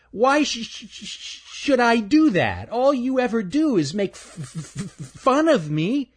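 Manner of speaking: high, stammering squirrel voice; a timid squirrel tripping on words; nervous stuttering squirrel. Acted. Stanley's voice.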